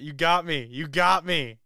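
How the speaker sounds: loud laughing teasing. Real, not acted. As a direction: laugh it out, caught off guard. Laughing at being caught.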